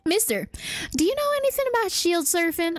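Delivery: hammed-up southern villager; grateful country folk in a put-on southern accent. Villager thanks rescuer and asks about shield surfing, southern accent. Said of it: "I started doing a southern accent".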